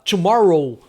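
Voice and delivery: "tomorrow" with a curled-back R; firm model of "tomorrow"; caipira-style English R. Shown as a demonstration. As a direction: sound out "tomorrow", leaning on the retroflex R. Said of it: "vai ser sempre esse som".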